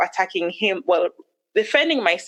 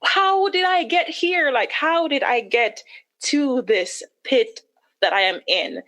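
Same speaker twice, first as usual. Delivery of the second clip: slow, much higher pleading; a slow high wail at herself; lost and despairing; 6 semitones higher than usual. Retold or imitated. Asking herself how she got here, in slow despair. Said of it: "And I'm just like".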